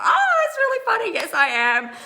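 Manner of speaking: high, laughing, embarrassed reply; flustered laugh. Retold or imitated. Answering the hostess who recognized her, laughing and flustered.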